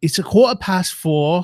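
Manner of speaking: attempted put-on Australian accent. Trying an australian accent the others asked for: attempted australian accent. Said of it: "Australian, here we go".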